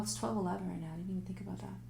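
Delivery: soft whispered aside to herself. Real, not acted. Reader noticing the time, whispering to herself. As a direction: whisper it, surprised by the clock.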